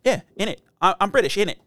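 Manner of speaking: imitating a kid stuck looping British catchphrases; lightly put-on British bruv voice; mock British accent, parroting on a loop; silly British accent. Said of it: "British accent sometimes".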